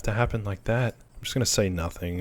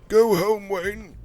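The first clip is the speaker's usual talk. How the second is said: very high, loud opening cry; hammed-up high-pitched call; over-the-top woman's voice; 11 semitones higher, 4 dB louder, much slower than usual. Older woman in the doorway sending Wayne off, hammed-up high cry. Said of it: "Probably shouldn't give her that voice".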